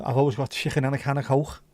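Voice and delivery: a strong Scouse "chicken and a can of Coke"; Scouse accent. Shown as a demonstration. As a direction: ham up the Liverpool "chicken". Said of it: "I spent years refusing to say chicken".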